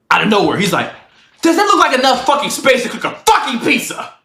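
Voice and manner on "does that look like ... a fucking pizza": retold outburst, raised pitch; aniden patlayan öfke. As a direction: act out his sudden angry demand. Retelling roommate's sudden outburst.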